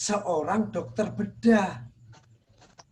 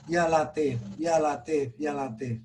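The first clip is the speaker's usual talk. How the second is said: said gently; 4 semitones lower than usual. Shown as a demonstration. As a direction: breathe it out tenderly, letting it die away. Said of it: "ucapkan dengan lembut". (diucapkan dengan lembut, makin pelan)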